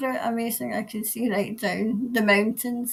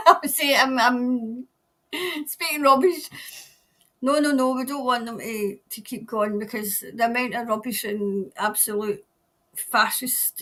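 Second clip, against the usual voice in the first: usual speaking voice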